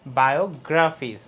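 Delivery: বায়োগ্রাফিস with গ্রা punched; stressed syllable. Shown as a demonstration. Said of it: "এই যে গ্রাফিস".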